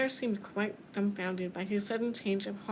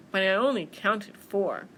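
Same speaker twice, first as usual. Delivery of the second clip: louder, mildly puzzled bear; 7 dB louder than usual. Acted. Bear who counted four, puzzled. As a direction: protest in confusion.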